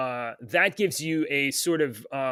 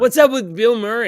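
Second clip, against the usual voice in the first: loud announcement; 7 semitones higher, 9 dB louder than usual. Real, not acted. Host introduces news topic.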